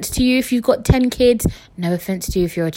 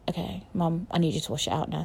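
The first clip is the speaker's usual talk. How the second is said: quiet request; 2 semitones lower, 10 dB quieter, faster than usual. Retold or imitated. Retold calm request to mum.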